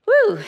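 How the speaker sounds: short high whoop; excited whoop. Real, not acted. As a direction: let out a bright little "woo". Exclaims after praising the music.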